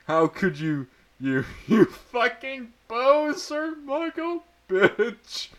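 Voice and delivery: high, slow, hammed-up furious rant; angry outburst. A narrator's reading. Character's angry outburst continues.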